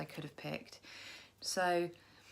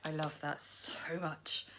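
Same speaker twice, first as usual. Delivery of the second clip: whisper. Real, not acted. Gushing about fox on card.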